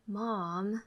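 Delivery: soft, sleepy complaining "Mom"; teen groaning at mom early morning; sleepy whine. Acted. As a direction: whine it, half awake. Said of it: "I whine".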